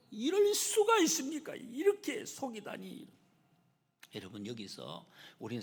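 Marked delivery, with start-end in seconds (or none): 0.1-3.1 high, loud cry of disbelief, easing off at the end; tearful outburst. Acted. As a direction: pour out acted outrage at being cheated. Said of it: "눈물을 흘리면서 막 토로를 했어요".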